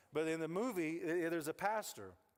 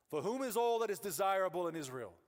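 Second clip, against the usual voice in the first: grand archaic recitation, higher and louder; Shakespearean reading; 4 semitones higher, 4 dB louder than usual. Shown as a demonstration. Pastor reading the cryptic verse, mock Shakespearean. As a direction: declaim it like an old stage play. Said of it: "It feels like Shakespeare".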